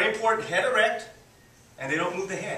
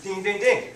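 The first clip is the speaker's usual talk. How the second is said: imitated bell dings; 3 dB louder than usual. Shown as a demonstration. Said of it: "So I did a square".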